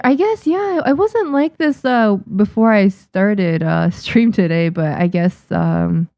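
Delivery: talking with a blocked nose; stuffy nose voice after sniffling. Real, not acted. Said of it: "Sound like stuffy nose there".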